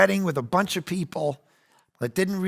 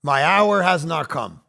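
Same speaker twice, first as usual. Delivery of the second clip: cryptic buddy; 3 dB louder, slower than usual. Pretend. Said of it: "one of them goes".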